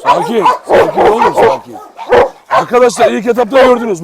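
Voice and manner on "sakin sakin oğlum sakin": much higher, loud calming call; high soothing. Real, not acted. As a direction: settle the dog in a high voice. Soothing tense dogs.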